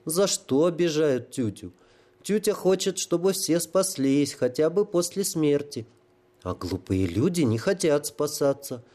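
put-on high, plaintive childlike voice; a simple-minded fool asking why he is wronged; childlike holy fool. Holy fool to the sapper, in a high childlike plea.

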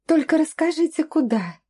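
high, pleading babble; plaintive little voice. A narrator's reading. Captive girl pleading with the man holding her skin. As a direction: coax the captor with a pitiful small voice. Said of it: "жалобным голоском пролепетала".

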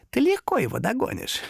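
high, husky creature voice; hoarse demon whispering. A narrator's reading. Demon says he can catch him, hoarsely whispering. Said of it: "сипло нашёптывал демон".

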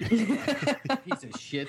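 drawn-out laughing curse; very slow, laughing mock outrage; slow laughing insult. Real, not acted. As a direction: stretch it out while laughing.

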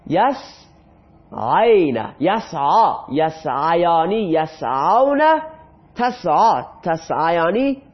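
slow drill. Shown as a demonstration. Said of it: "teacher drills verb forms".

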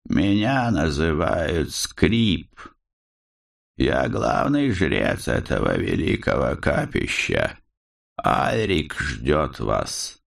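cold and measured, like a proud priest; slow cold priest. Acted. The priest speaks after coldly.

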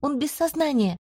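high, urgent shout back; shouted reply. A narrator's reading. Healer shouts back to the commander that he's unconscious, high and urgent. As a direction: call out over the noise, desperate. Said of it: "крикнула я в ответ".

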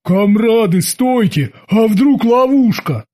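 a touch of fear in a sailor's voice; Babs doubting. A narrator's reading. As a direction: stop your comrades with a worried warning. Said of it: "засомневался Бабс".

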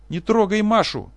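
very high, loud, slow scream; father screaming to protect Masha; frantic scream. Acted. Professor screams.

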